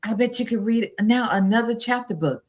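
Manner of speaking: put-on praising a child. Shown as a demonstration.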